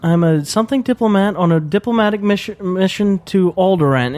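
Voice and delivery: a hint of a stuck-up princess; pompous pseudo-British. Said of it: "pompous voice".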